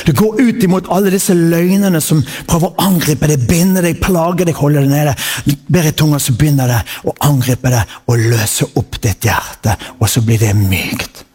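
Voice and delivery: preacher's intense sermon cadence over music; preaching. Acted. Preacher urging the congregation to pray in tongues, fervent preaching. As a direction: preach it, letting the phrases roll and swell.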